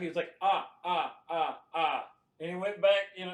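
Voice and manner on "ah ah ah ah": mechanical ah ah laugh; robot laugh. Retold or imitated. Imitating robot doll laugh in the scene. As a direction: laugh like a machine. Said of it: "he had the robot laugh".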